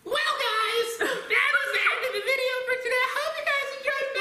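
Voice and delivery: squeaky high-pitched Mickey Mouse voice; chirpy outro like Mickey Mouse. Real, not acted. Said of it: "Why do I sound like Mickey Mouse".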